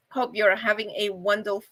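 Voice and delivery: sore mouth, careful speech; speaking around a healing mouth; talking funny after oral surgery. Real, not acted. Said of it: "I know I'm talking funny".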